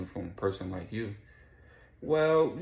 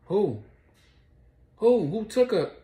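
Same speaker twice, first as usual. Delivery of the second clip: high, loud panicked demand; frantic yell; 12 semitones higher, 7 dB louder, slower than usual. Retold or imitated. Charlie on the phone hearing the news, frantic yell.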